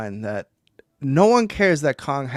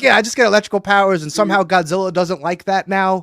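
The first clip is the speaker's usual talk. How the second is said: mocking voice; 3 semitones higher, 4 dB louder than usual. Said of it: "The other one's is like".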